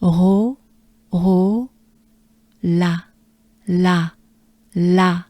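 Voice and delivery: slow drilled syllables; syllables spaced out for practice; French syllable drill. Shown as a demonstration. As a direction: break it into syllables. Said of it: "Take a good breath".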